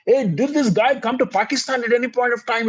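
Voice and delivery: high, sudden curious question; curious captain. Retold or imitated. Captain, softening, asks the traveller a question. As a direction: blurt it out, curious.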